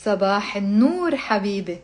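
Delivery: measured line, left open to repeat; repeat-after-me reading. Shown as a demonstration. Teacher reading for students to repeat, measured. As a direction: model the phrase clearly for learners. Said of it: "I just say the sentences, pause".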